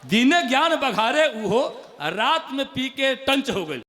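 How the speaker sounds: punchline repeat. Acted. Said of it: "मुक्तक".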